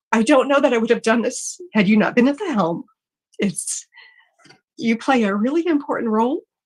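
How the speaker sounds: on the verge of tears, holding back crying. On air, thanking the person being addressed, holding back tears. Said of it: "I'm going to try not to cry".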